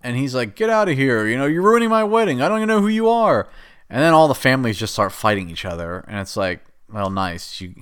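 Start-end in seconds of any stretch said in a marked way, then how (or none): 0.6-3.5 higher, fast, hammed-up outrage; mock indignant groom. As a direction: rush it out, mock offended. Groom voiced objecting at wedding.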